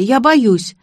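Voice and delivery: put-on childish wheedling. A narrator's reading. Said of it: "законючила Леся".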